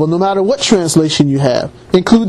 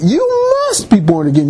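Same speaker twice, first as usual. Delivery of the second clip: stretched, insistent "must", the rest falling away; emphasis on MUST; faster than usual. Retold or imitated. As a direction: hold "must" long for emphasis. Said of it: "He put an emphasis on that".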